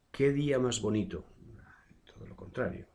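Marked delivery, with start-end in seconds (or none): 0.1-1.3 "qué" alto y fuerte, con caída final alegre; exclamación encantada. Shown as a demonstration. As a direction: exclama como quien disfruta de un día precioso. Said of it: "una sensación de, de agrado". (exclamación de agrado, más alta y fuerte)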